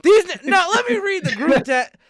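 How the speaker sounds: high, loud laughing speech. Real, not acted. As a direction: talk through the laughter. Laughing while talking.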